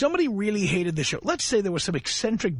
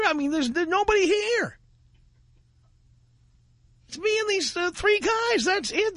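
incredulous; 12 semitones higher than usual. Real, not acted. Incredulous insistence.

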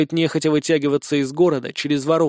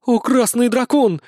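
high, slow astonished exclamation; awed gasp; 8 semitones higher, 3 dB louder than usual. A narrator's reading. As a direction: gasp in wonder. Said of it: "ахнули другие". (изумлённый возглас)

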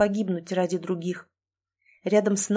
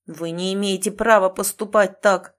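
enraged; 5 dB louder than usual. Acted. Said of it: "разъярился он".

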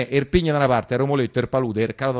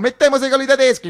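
raised, higher mock-shout of the people; quoting the crowd; 9 semitones higher, 6 dB louder than usual. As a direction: call it out like the crowd.

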